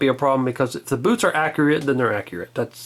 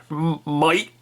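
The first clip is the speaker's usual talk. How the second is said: put-on Australian accent. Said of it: "I can kinda do that Australian accent".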